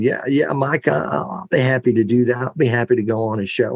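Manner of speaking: an easygoing politician's hint of an Arkansas accent. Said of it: "That's a good Arkansas accent".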